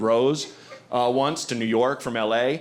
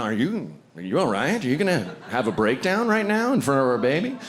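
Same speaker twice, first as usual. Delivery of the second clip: pointed concern. Retold or imitated. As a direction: call him out, dry and direct. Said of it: "Oh, like, 'No".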